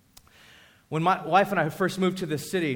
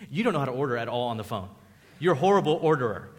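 quick, lightly voiced scolding; teasing shop owner; 4 semitones lower, faster than usual. Owner teases Tark about phone orders, a light quick scold. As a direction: rattle it off as a mock scold. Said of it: "she said".

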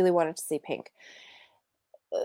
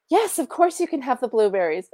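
higher acted agreement, falling away; forced mock-willing yes; strained permission; 4 semitones higher, 3 dB louder than usual. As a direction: say yes to a child while dreading it. Acts out strained permission to son.

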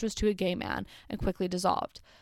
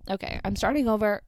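voice cracking. Real, not acted. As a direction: voice cracking mid-phrase. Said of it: "my voice just cracked".

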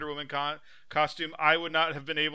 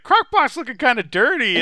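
higher, louder sneering aside; snarky reaction guy; 10 semitones higher, 10 dB louder than usual. Retold or imitated. Reaction video guy mocking the host, loud snark. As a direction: sneer at the dirty pot. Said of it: "He's like".

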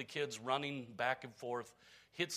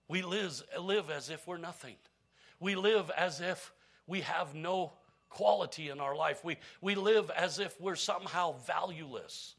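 we live louder and higher, building; building emphasis; 4 semitones higher, 5 dB louder than usual. Real, not acted. Preacher exhorting the church, louder on we live. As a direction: drive the repeated we live home.

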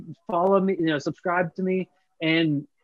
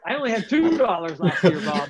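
laughing; 4 semitones higher than usual. Real, not acted. Joking about winning a dollar.

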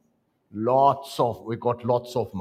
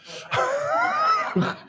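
high shouted laugh. Real, not acted. Laughs at his own joke.

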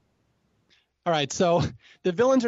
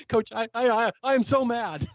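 mock furious Coach; 6 semitones higher than usual. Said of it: "Coach is now furious".

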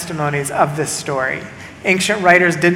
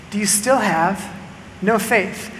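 softer, a quiet question; soft rebuke; 6 dB quieter, slower than usual. Acted. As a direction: ask it gently, almost under the breath. Jesus questions his disciples.

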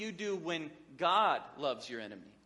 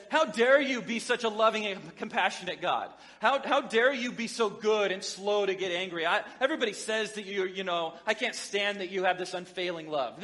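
loud, scornful rant at God; indignant insult; 2 semitones higher, 4 dB louder than usual. Acted. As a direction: hurl it back at God with contempt. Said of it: "throws it back at God as an insult".

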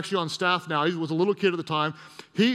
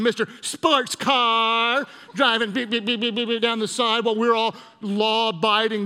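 hammed-up indignant tirade, raised pitch; mock rant; 2 semitones higher than usual. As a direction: go off on the offending driver. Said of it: "Just unleashed on it".

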